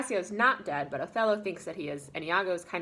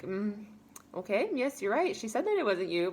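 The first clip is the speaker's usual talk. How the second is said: higher, mock-doubtful going along; suspicious agreement; 4 semitones higher than usual. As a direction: imitate someone agreeing while unconvinced. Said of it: "Emilia's suspicious".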